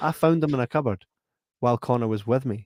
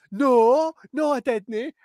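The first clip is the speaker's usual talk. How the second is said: mock denial; 12 semitones higher, 5 dB louder, much slower than usual. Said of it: "He's like".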